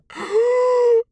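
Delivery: sharp high theatrical gasp; a sharp, high, showy intake of breath; mock gasp. A sharp high mock gasp before naming the job. Dramatic pause before the reveal.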